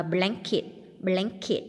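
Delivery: "blanket" with the first syllable stressed. Shown as a demonstration. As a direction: lean on the start of "blanket". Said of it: "nhấn âm đầu". (nhấn âm đầu "blanket")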